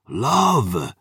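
roared. Acted. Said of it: "he roared".

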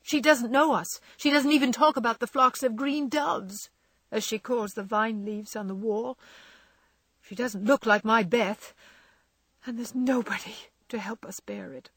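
high, loud, anguished tears; tearful pleading. Acted. Jo tells Laurie Beth is lost, tearful. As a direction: Jo pours out her despair, voice breaking. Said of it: "As the tears streamed fast".

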